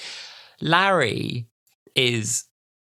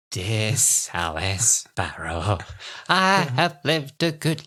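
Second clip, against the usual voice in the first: put-on old lady letter; much slower than usual. Reading old Kathy's letter.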